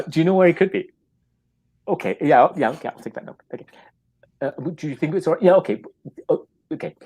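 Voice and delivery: awkward phone caller. Retold or imitated. Acted phone call, awkward caller.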